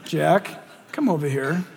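gentle summons. Acted. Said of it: "he'll go".

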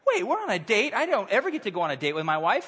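mildly indignant retelling; retold indignation. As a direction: recount being put out, starting high. Recounting his indignation at rude waitress.

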